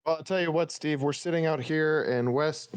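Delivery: newscaster voice. Pretend. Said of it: "you had a newscaster voice for that".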